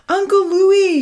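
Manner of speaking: high, urgent shout; loud call. A narrator's reading. Amy summons Uncle Louie for hurt Charlie, calling loudly. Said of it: "she called out loudly".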